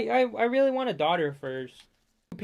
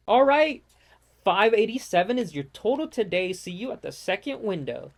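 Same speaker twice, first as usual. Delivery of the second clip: a hint of service voice. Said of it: "customer service voices".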